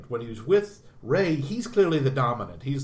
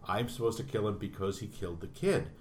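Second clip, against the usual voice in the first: quiet dawning realisation; 5 semitones lower, 6 dB quieter than usual. Retold or imitated. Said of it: "he understands".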